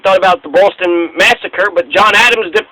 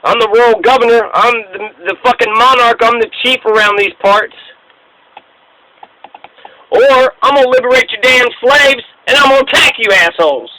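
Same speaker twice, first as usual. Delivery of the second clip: lightly voiced swaggering Lord Dunmore threatening the rebels; mock royal governor; 4 semitones higher than usual. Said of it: "and then he says".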